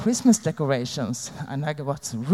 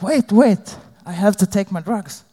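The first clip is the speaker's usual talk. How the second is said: urgent protest; 3 semitones higher, 4 dB louder than usual. Retold or imitated. Stalling police at the door.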